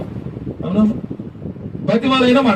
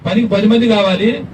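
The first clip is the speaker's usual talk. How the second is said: calling out; 3 dB louder than usual. Pretend. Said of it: "అని నువ్వు పిలవగలవు".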